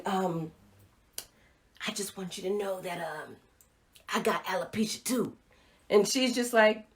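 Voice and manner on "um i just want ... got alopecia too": much softer, almost under the breath; embarrassed confession. Retold or imitated. Mother quietly telling the teenager she has alopecia too, hushed. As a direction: confide it hesitantly, hardly audible.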